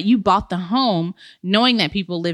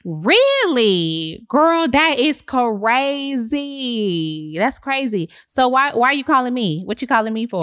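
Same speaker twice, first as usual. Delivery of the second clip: sassy realtor; 2 semitones higher than usual. Acted. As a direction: gush like a smug realtor. Realtor character.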